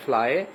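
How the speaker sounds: فلائی ending in a long "eye". Shown as a demonstration. Teacher showing Y as a vowel, long "eye" in فلائی. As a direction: model فلائی with a clear "eye" sound. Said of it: "وہ آئی sound ہے".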